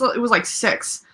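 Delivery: a bit slurred, hiccupy. Real, not acted. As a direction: let the words slur slightly. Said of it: "now I sound like a drunk".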